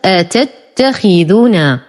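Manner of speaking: آتتخذون slowly, opening on a short "a"; short hamza. Shown as a demonstration. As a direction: start آتتخذون on a hamza with no lengthening. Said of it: "ننطقها أ بدون مد". (آتتخذون بهمزة دون مد)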